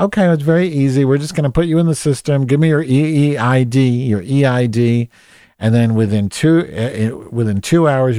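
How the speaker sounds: high, bright sales-pitch cheer, loud; mock chirpy agent. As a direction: parody a relentlessly upbeat support rep. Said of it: "pretend they're genuinely excited for you".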